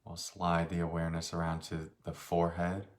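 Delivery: unhurried meditation guide, long pauses between phrases; slightly softened voice, leaving space after each phrase; guided meditation. Real, not acted. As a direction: guide them gently through a body scan. Leads a meditation.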